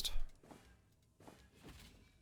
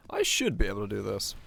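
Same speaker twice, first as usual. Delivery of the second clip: losing voice; 2 semitones lower than usual. Real, not acted. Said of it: "I'm losing my voice".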